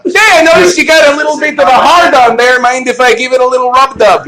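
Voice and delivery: high-pitched, hammed-up Chicago twang; Chicago woman. Chicago woman propositioning someone, exaggerated twang. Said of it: "That's the Chicago woman".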